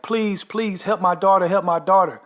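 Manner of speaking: imitated begging. Wife begs narrator to help daughter, high plea. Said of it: "she's begging".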